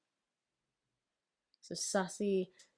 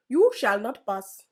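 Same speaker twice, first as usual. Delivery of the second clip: put-on mild Indian accent; 4 dB louder, slower than usual. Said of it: "in an Indian accent".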